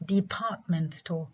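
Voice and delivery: Department store, with de-PART-ment stressed on the second syllable, slow. Shown as a demonstration. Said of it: "في كلمة department ال stress على المقطع الثاني".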